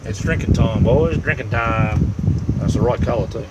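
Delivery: real festive shout; loud cheer. Real, not acted. Cracks a drink, cheering the boys.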